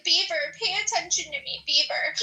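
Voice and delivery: high whiny mock of a needy narcissist; mocking impression. Mocking a streamer who wants attention, in a high whiny voice. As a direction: mimic him whining for attention. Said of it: "You're like".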